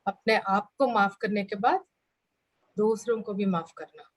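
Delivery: unhurried guidance with long pauses; guided meditation. Acted. Teacher guiding the class to forgive themselves, guided meditation. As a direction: lead them gently, leaving space between phrases.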